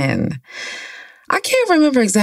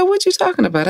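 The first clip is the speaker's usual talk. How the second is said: friend's voice. Retold or imitated.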